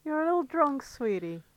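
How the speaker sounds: put-on call girl Caramel. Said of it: "I can be Caramel".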